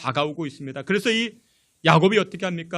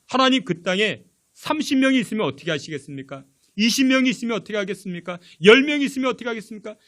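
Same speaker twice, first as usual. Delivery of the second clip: starts plain, ends faster, higher and louder; bargaining harder and faster with each number; pleading that builds; 4 semitones higher, 4 dB louder, faster than usual. Retold or imitated. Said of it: "이제 어떻게 해요?".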